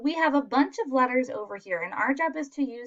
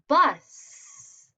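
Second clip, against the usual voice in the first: emphatic answer reveal; 5 semitones higher, 9 dB louder than usual. Shown as a demonstration. Teacher reveals the answer word.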